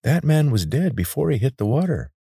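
high, tense creature voice; a wary reptile guide, high and tight; lizard guide voice. A narrator's reading. Zarek voiced in story.

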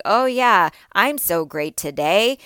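mock-cheerful sarcastic oh yeah, slow. Shown as a demonstration. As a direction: say it dripping with fake cheer. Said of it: "Are you sarcastic a lot?".

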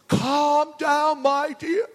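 Michael Winner impression. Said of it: "the Michael Winner advert".

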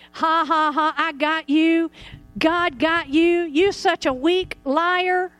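half-hearted ha-ha, slowing into a jeer; mock laughing taunt. Preacher shows believers taunting the devil, mock laughing. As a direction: gloat with deliberate, drawn-out words. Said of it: "then you just start laughing".

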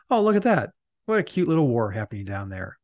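mock blithe wonder. Voicing blithe Moscow onlookers watching the war, mock wonder. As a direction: coo blithely at a distant trifle.

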